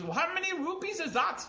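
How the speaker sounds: high, loud put-on customer voice; in character. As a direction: play the puzzled customer in a squeaky-high character voice. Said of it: "that's why I will go into character".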